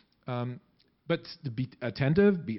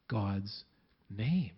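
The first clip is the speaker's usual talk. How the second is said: God's name said softer and low, like a breath; soft breathed words; 7 semitones lower, 6 dB quieter than usual. Shown as a demonstration. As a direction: let God's name fall softly on the breath. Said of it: "It's actually breathing".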